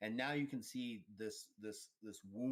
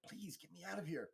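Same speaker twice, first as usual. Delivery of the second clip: pleading lady; 7 semitones higher than usual. Acted. Injured lady grabbing her rescuer's leg, high pleading voice. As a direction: beg for rescue in a higher put-on voice. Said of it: "grabs your leg and is like".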